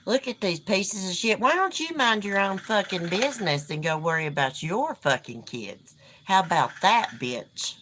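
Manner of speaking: heated, swearing at trolls; angry cursing. Real, not acted. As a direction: lash out at the commenters. Cursing at rude commenters.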